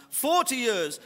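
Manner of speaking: slow mock German accent, lilting towards Welsh; German accent slipping into Welsh. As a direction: badly imitate a German accent, drawn out. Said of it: "sounds Welsh now".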